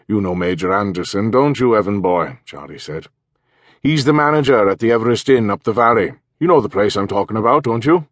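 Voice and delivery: a cheerful Welsh villager making introductions; Charlie's voice. Acted. Charlie speaks in story.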